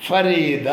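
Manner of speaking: ഫരീദ drawn out in three syllables, ഫ-രീ-ദ. Shown as a demonstration. Teacher shows three syllables, ഫരീദ said syllable by syllable. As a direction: stretch ഫരീദ so each syllable is heard. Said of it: "അതൊരു മൂന്ന് syllable ഉണ്ട്".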